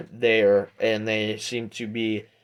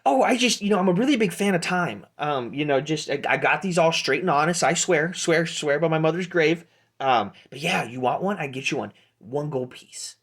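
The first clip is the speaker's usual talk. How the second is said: higher-voiced shady peddler; Pete; 6 semitones higher, 4 dB louder than usual. Halfling peddler vouching for his timepieces, earnest hustler's patter. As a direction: swear your honesty like a hawker. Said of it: "my name's Pete".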